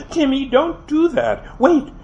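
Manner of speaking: sharp warning. A narrator's reading. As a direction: snap out the warning, high. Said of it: "She shot at my little brother".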